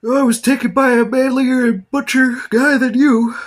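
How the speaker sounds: very high, loud falsetto taunt; hammed-up high-pitched jeer; mock shrill voice. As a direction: screech it like a snooty rival. Mocks a character in a silly voice.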